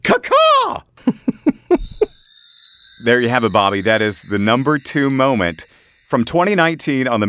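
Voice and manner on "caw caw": high loud caw-caw bird squawk; bird call. Pretend. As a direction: squawk like a crow for a sync clap. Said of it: "kinda do a clapboard sound".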